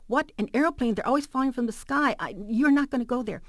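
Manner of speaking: high, agitated protest; alarmed mother. Retold or imitated. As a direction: forbid it in a retold motherly fluster. Mom alarmed at plane travel.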